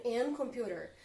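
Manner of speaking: "An computer" said as the deliberately wrong form, "an" run into "computer"; wrong article demo. Shown as a demonstration. Teacher demonstrating the wrong article to the students. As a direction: show the class how odd "An computer" sounds. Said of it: "Olha como ficaria estranho".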